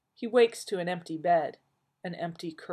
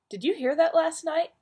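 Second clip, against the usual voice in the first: high, loud fussy grumble; Joel complaining; 12 semitones higher, 6 dB louder than usual. Acted. Husband griping to Marilyn over coffee, fussy and loud. Joel's complaining voice, fan fiction.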